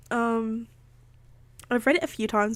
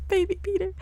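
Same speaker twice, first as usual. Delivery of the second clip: cooing; 10 semitones higher, 4 dB quieter, faster than usual. Real, not acted. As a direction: coo fondly. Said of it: "I'm gonna cry".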